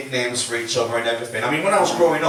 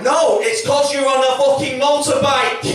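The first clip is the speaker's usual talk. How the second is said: high, slow, loud shout of frustration; exasperated outburst; 10 semitones higher, 4 dB louder than usual. Retold or imitated. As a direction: finally lose patience with the driver. Exasperated gatekeeper finally snaps at driver.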